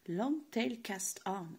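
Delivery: mock English accent on "long tail cast on"; slow, put-on English pronunciation. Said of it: "j'ai un accent anglais trop beau".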